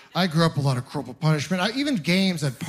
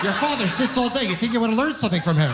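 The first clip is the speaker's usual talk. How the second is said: high, fast mock-scolding mom; scolding mother; 5 semitones higher than usual. Mother scolding her crying son at the party, high and fast. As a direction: nag the kid like an exasperated mother.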